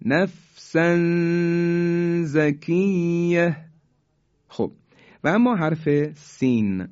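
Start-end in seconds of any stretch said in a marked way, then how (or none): 0.1-3.6 Quranic recitation holding a nasal hum before زکیه; ikhfa recitation. Shown as a demonstration. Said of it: "مثال بعدی". (تلاوت آهسته نفسا زکیه با اخفای تنوین)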